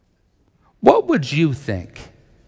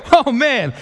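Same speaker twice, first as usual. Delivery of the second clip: panicked disciples; 11 semitones higher than usual. Retold or imitated. Disciples seeing a ghost on the sea, mock high panic. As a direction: ham up the terror of the disciples. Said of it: "They go".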